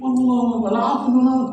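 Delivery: lightly voiced Arab guard, high and loud; a hint of the flustered Arab guard; Arab man apologizing. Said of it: "Dia ngomong Arab". (penjaga Arab yang minta maaf dengan suara tinggi)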